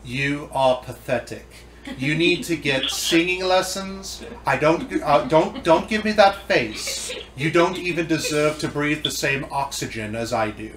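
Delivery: a hint of a withering talent-show judge; lightly voiced put-down of a hopeless contestant; Simon Cowell impression. Friend roasts the virus as a talent judge, lightly voiced. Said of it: "I'm gonna have to do Simon now".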